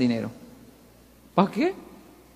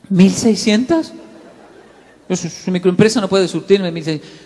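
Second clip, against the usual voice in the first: stunned disbelief; 5 dB louder than usual. Retold or imitated. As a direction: repeat the number like you can't believe it. Shocked by a huge order. (incredulidad asombrada, casi riendo)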